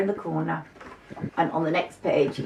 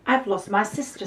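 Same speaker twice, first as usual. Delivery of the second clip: worried little mouse; 5 semitones higher than usual. Acted.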